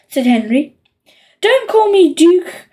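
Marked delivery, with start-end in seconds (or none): 1.4-2.7 higher, slow whiny shriek. A narrator's reading. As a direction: shriek in protest like a small boy. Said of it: "shrieked Peter".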